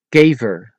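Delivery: Kever with long ay, then uh; Dutch E sounds. Shown as a demonstration. Teacher giving an example, Kever with ay then uh. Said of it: "listen closely at the pronunciation".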